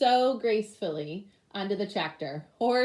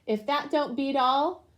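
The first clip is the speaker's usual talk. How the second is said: blubbering; 7 semitones higher, 3 dB louder than usual. A narrator's reading. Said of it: "Deputy Bob blubbered".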